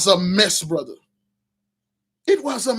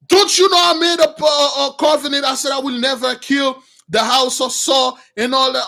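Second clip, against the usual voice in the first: raised, indignant scolding; angry rebuke; 4 semitones higher than usual. Retold or imitated. King David rebuking the killers, raised indignant scolding. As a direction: scold them for breaking his oath.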